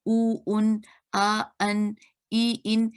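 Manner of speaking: उ, उन, आ, अन, ई, इन as separate, evenly spaced sounds; sounds demonstrated. Shown as a demonstration. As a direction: sound out उ, उन, आ, अन, ई, इन one at a time. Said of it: "ये जो आवाज़ें". (उ, उन, आ, अन, ई, इन एक-एक करके साफ़ बोलें)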